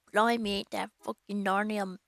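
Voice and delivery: put-on second, firmer go at a London accent; badly faked London accent; attempted London accent. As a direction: launch boldly into a bad London accent, then give up. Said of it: "I can't do accent".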